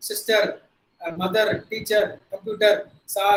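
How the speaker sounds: "sister, mother, teacher" with each final R tapped; Indian-English R. Shown as a demonstration. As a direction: Indian R ending on "computer" and "sir". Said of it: "That is how we pronounce the letter R". ("sister", "sir" இறுதியில் தமிழ் ர் ஒலி)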